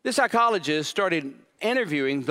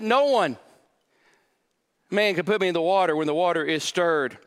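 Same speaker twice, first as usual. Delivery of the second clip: a hint of a whining cripple, louder; defensive complaint; 4 semitones higher, 3 dB louder than usual. Pastor voicing the man's excuses, mildly raised whine. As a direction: keep making excuses. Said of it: "He, he said".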